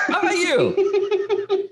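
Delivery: high, drawn-out giggly question; laughing. Real, not acted. Repeated through laughter, high.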